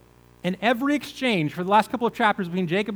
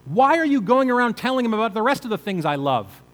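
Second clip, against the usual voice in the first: angry father; 4 semitones higher, 5 dB louder than usual. Retold or imitated. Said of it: "And so Jacob is saying to them".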